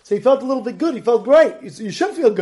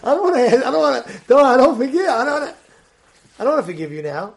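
worked-up, loud refusal to forgive; blurting out a flat no; stubborn refusal; 2 semitones higher, 3 dB louder, faster than usual. Retold or imitated. Grudge holder refusing an apology, worked up and loud.

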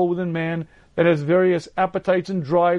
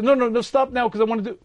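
inner voice; 5 semitones higher, faster than usual. Retold or imitated. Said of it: "you hear a voice that says".

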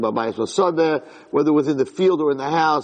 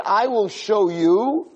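God's rebuke; 5 semitones higher than usual. Retold or imitated. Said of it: "Hashem said".

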